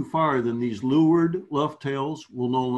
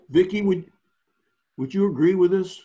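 raised voice calling across the room; 6 semitones higher, 8 dB louder than usual. Real, not acted. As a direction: call out loudly to a colleague. Calls Vicki across the room.

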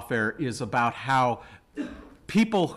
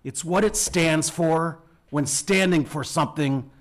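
Spencer Tracy; 3 semitones higher than usual. Acted. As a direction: deliver a solemn film speech, phrase by phrase. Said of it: "I'll do a Spencer Tracy accent".

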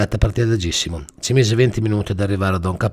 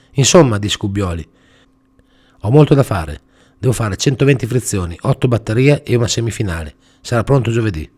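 brusque mechanic; 5 dB louder than usual. Acted. Mechanic's rant.

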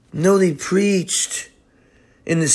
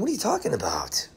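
quick, soft whispered doubt; 4 semitones lower, 10 dB quieter, faster than usual. Retold or imitated. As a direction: whisper it fast to yourself. Listener's doubting thought voiced.

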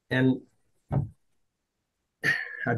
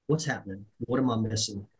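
softer, calm and open; calm, neutral question; 3 semitones lower, 4 dB quieter than usual. Retold or imitated. Chief calming down to ask the NCO, softer. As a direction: ask gently after a pause. Took a hard pause.

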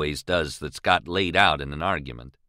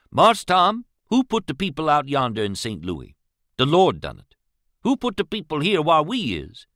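higher and louder, preacher-like rising argument; Jim preaching; 7 semitones higher, 4 dB louder than usual. A narrator's reading. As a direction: hammer the point like a sermon. Jim preaching his point.

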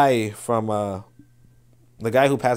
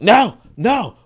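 dismissive no no; 9 semitones higher, 6 dB louder than usual. Retold or imitated. Retold argument with a friend.

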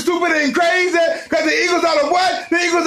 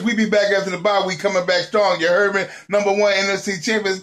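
lower, subdued cheering; deflated pride; 6 semitones lower than usual. Real, not acted. Fan staying loyal after a loss.

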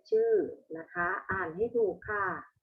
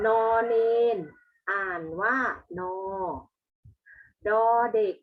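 classroom recitation; 4 dB louder than usual. Shown as a demonstration. Teacher leads pupils in reading the consonants, classroom recitation. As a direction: recite each letter name louder, then its sound.

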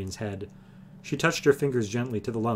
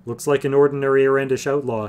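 louder, lightly grunted verdict; 3 semitones higher, 7 dB louder than usual. A narrator's reading. Old man examining a body, grunting. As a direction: grunt out the assessment. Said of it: "he grunted".

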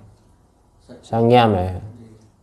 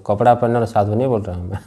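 quick, amused aside breaking into laughter; much faster than usual. Real, not acted. Teacher joking with students about the word साधु, amused. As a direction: say it fast, laughing at the end.

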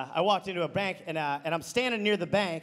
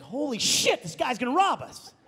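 shocked realization; 5 semitones higher than usual. Retold or imitated. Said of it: "I was like".

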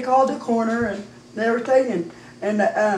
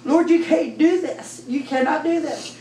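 higher, slow mock-scream plea to God; retold screaming plea; 4 semitones higher than usual. Devastated mother protesting to the Lord, retold mild scream. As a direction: plead with God in a half-held-back cry. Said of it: "I was screaming and everything".

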